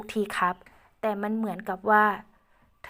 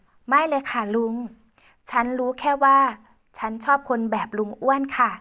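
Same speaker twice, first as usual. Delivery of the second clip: put-on reassuring young woman; 4 semitones higher, 5 dB louder than usual. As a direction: reassure him gently as Ae. Ae reassures uncle.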